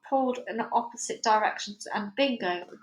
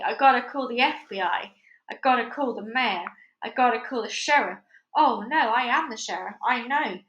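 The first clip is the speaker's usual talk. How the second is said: panicking sheriff; 3 semitones higher than usual. Acted. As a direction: flap about like a flustered small-town sheriff. Sheriff's excited panic speech.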